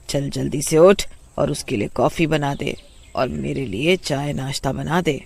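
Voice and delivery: nagging call to get up and cook; mother-in-law nags sleeping bahu for breakfast, bossy. Acted. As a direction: order her out of bed.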